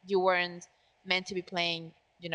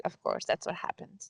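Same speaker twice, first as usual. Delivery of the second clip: deadpan sarcasm, slightly subdued; mock agreement, said as if obvious; sarcastic; 4 dB quieter than usual. Real, not acted. Co-host mocks the theory that they're related, sarcastic. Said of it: "I'm being sarcastic".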